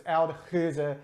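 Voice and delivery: Oud Geuze with a throaty G; Dutch pronunciation. Shown as a demonstration. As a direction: say Oud Geuze the Flemish way, final uh sounded. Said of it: "Dutch pronunciation".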